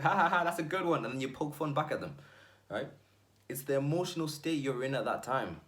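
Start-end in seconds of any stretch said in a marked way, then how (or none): 0.0-1.0 higher and louder, a breezy mock laugh. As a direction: shrug off the joke with a laugh. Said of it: "You're like".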